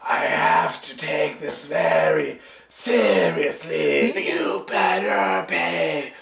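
intense actor. Acted. Acted slow intense actor impression.

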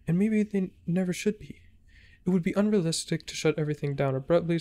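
urgent, pleading letter read aloud; dramatic note reading. Acted. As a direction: read it like a desperate report.

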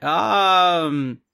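high, loud sheepish yes; mock yelled agreement. Newcomer answers the preacher, mock yelling. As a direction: shout a reluctant yes. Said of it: "Why are you yelling at me, sir?".

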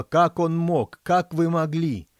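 slow furious yell, high and loud; queen yelling while chasing her daughter; angry shout. A narrator's reading. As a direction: scream it at your daughter. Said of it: "кричала королева".

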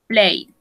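Played said plade, no E sounded; played, one syllable. Shown as a demonstration. Teacher drilling Played for students, slowly. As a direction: clip Played to a single syllable. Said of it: "we don't pronounce the E".

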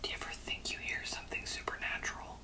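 hushed, voiceless whisper. Acted. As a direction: whisper it as a private musing. Whispers throughout the aside.

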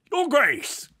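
loud, high-pitched hail; big eager shout of greeting; hearty cry. A narrator's reading. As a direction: call out boisterously to a nobleman. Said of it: "cried two rather robust gentlemen".

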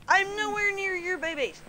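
high, urgent pleading; panicked pleading. Real, not acted. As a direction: plead fast with the bear. Pleading with attacking polar bear.

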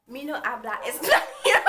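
put-on Spanish accent. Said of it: "She didn't do a Spanish accent".

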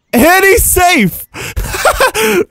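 high, slow, stretched-out "safe"; excited umpire call. Pretend. Streamer calls the slide like an umpire, high and excited.

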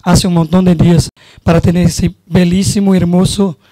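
Spanish with a Brazilian Portuguese accent; a Brazilian speaking Spanish loosely; Portuñol. Real, not acted. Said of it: "vou falar em portunhol".

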